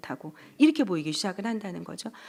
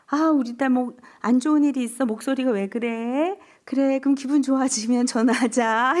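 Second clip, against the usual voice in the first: mother on the phone; 3 semitones higher than usual. Retold or imitated. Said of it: "이러고 엄마가 전화를 끊는다는 거예요".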